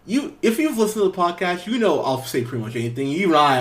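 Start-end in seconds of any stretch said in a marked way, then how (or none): none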